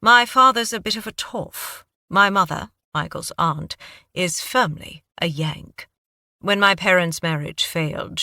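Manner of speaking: lightly British, a note of pain; understated British accent, telling of his parents. Acted. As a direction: recount the family story in a British accent. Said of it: "Your accent".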